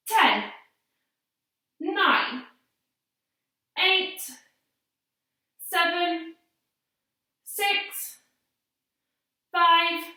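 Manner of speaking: breathless counting while holding plank; out of breath. Real, not acted. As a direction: count through heavy breathing. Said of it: "which is why I sound really, really out of breath".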